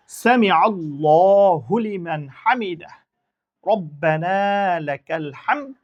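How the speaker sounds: slow, drawn-out Arabic recitation; prayer recitation. Shown as a demonstration. Teacher recites the prayer for students, slow and drawn out. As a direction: chant each word slowly and clearly for learners. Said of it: "আবার বলি".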